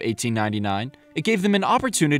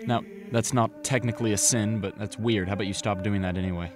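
hushed confession whisper; 5 semitones lower, 6 dB quieter than usual. Acted. Priest speaks in confession booth.

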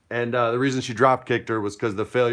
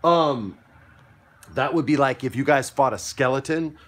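usual speaking voice

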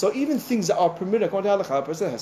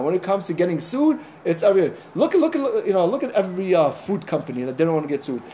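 usual speaking voice

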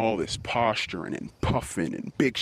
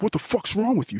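mock angry shout; 10 semitones higher than usual. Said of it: "he kinda put his hands out like".

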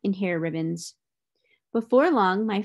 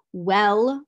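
big, loud gorilla demand; a looming gorilla's challenge to the father; huge voice; 6 dB louder than usual. A narrator's reading. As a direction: call it out like a huge beast. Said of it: "said a huge voice".

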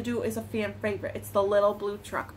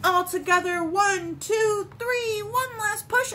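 higher, building countdown; rallying count; 10 semitones higher, 5 dB louder, slower than usual. A narrator's reading. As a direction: cheer them on for a big push. Rallying everyone for the push.

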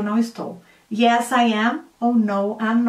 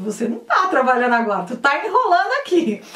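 quick playful accusation of slacking; mock telling-off; faster than usual. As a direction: call out a slacker in jest. Teasing someone faking work.

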